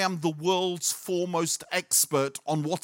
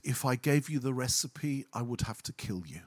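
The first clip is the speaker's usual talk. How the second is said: mock menace; 3 semitones lower, 5 dB quieter than usual. The speaker's mock threat.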